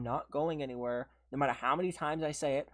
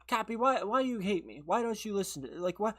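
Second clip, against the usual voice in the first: mock whiny nag; 5 semitones higher than usual. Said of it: "the next day say".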